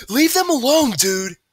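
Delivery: high, loud demand; forceful high-pitched order; confronting shout. A narrator's reading. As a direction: shout them off your friends. Friend confronts the bullies.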